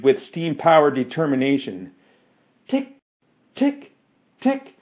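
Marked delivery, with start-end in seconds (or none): 2.7-4.7 high, short spoken ticks; mechanical ticking. A narrator's reading. Metal man ticks between phrases, high mechanical ticking. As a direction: tick like clockwork, high and evenly spaced.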